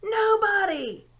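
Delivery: high, loud hooting, drawn out slow; owl hoot. A narrator's reading. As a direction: make the word a long owl hoot.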